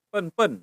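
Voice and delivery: pen-pen with a schwa, rising tone; shown intonation. Shown as a demonstration. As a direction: say pen-pen as Mandarin, uh-like vowel. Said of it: "intonasinya liatin ya".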